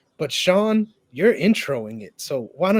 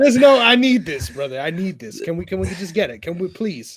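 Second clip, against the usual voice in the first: playful pleading; 3 semitones higher, 5 dB louder than usual. Real, not acted. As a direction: plead with your buddy to go along. Begging co-host to say names.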